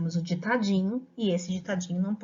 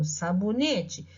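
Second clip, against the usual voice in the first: slow example word; 4 semitones lower, slower than usual. Shown as a demonstration. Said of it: "Então, por exemplo".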